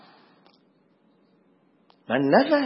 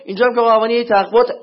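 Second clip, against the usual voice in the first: bored complaint; 4 semitones higher, 8 dB louder than usual. Retold or imitated. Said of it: "بگید".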